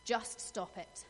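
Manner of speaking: a voiced, firmer "Just stop it." with weight on "Just"; firm command. Friend putting her foot down, firm voiced command. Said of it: "she looked me in the eye and she said".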